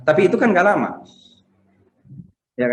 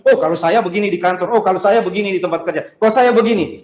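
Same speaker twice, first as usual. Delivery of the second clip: lightly acted show-off, pitched up; mock boasting; 5 semitones higher than usual. Believer telling others of successes at work, mock boastful. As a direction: imitate someone bragging about their success. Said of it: "kita cerita tentang keberhasilan kita".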